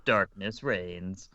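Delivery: slow, drawn-out trailer narrator; movie trailer voice. Acted. Classic trailer opener, slowed.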